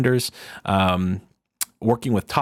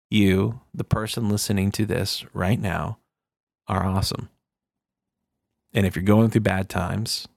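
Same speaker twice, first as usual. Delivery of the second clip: right in your ear. Retold or imitated. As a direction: speak close and gentle to one listener. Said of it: "I ended with something like".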